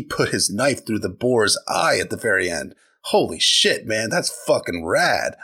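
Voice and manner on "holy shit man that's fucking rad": mock excited bro. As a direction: gush like a dazzled kid brother. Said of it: "not totally in that tone".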